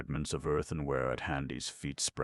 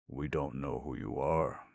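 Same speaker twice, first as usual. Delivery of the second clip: cautious. Acted. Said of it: "explained Nox in a cautious voice".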